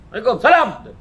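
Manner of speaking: high, loud, laughing greeting; laughing reply. Retold or imitated. Aunt with nerve disorder answering the greeting, laughing.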